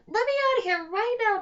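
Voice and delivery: troll princess screaming from the cell. Acted. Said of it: "Trobella screamed".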